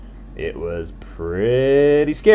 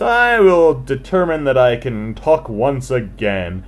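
grand frog speech; 3 dB louder than usual. Acted. Frog finally speaks, grand.

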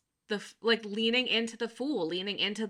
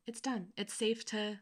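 soothing. Acted. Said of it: "like, a real soothing way".

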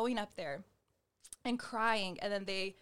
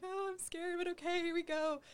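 mock scared; 9 semitones higher than usual. Retelling a scary prayer moment.

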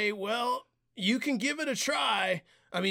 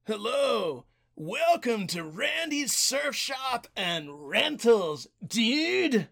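surfer dude; slower than usual. Acted. Surf shop clerk greeting.

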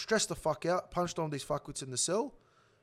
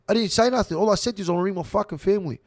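retold protest, high and loud; raised, pressing voice of a wronged man; indignant protest; 4 semitones higher, 7 dB louder, faster than usual. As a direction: plead your case heatedly, as retold. Retold protest to prison officers.

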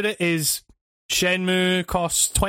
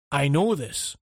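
game character voice; 5 semitones lower, slower than usual. Retold or imitated. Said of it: "I just went to you".

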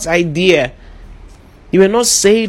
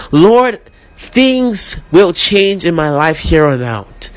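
1 leading prayer. Acted. Congregation led into spoken prayer.

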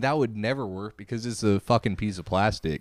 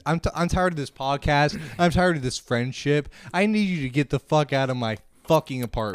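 higher, fed-up mock rant; staged angry rant; 5 semitones higher than usual. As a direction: lay into him in a fake fight. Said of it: "just really fucking just going in on each other".

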